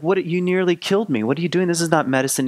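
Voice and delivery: lightly acted angry outburst at a friend; mad at Frog. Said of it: "he's mad at Frog".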